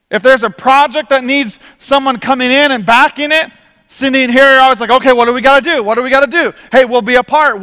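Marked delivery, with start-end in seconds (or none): 4.9-7.6 louder, can-do volunteer voice, imitated; retold eagerness. Couple always backing church projects, imitated loud and eager. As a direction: act out someone jumping in to help. Voicing eager givers ready to help.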